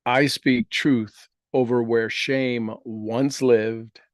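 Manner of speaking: slow, steady affirmation voice; guided affirmation. Acted. Leads affirmation repetitions.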